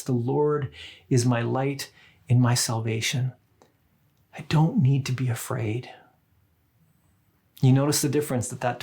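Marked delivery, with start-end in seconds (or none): 0.0-5.9 faith-filled self-talk. Shown as a demonstration. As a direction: speak it to yourself as gentle reassurance. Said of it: "it sounds more like this".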